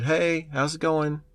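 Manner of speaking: drawn-out fake friendly greeting; creepy hacker greeting. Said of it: "guy came over the thing and said".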